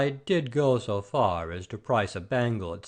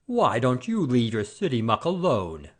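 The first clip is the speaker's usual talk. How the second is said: flaring up; 3 dB louder than usual. Acted. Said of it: "flaring up".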